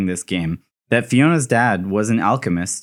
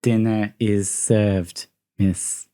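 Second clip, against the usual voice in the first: creepy maid; 4 semitones lower, much slower than usual. Acted. Maid greets Fiona, voiced quote.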